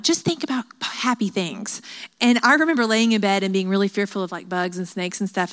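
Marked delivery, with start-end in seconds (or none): 0.0-1.8 imitating mom. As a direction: imitate a mom gently advising her child. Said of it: "my mom would be like".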